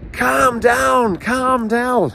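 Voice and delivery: high, loud mocking yell; shouting calm down. Burglar shouting at his partner, loud high yell. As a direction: yell it at your mate, anything but calm. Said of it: "starts shouting at the other one".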